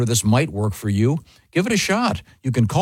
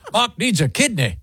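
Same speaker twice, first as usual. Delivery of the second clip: high, badly faked foreign accent; hammed-up accent of no known country; unidentifiable foreign accent; 11 semitones higher than usual. Shown as a demonstration. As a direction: attempt a vague foreign accent, pitched way up. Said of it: "not sure what accent that is".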